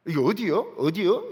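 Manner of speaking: mock indignant Jeolla dialect; Jeolla dialect quarrel. Preacher mimicking Jeolla churchgoers fighting, Jeolla dialect quarrel. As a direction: imitate someone arguing in Jeolla speech. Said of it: "전라도 말로 싸워요".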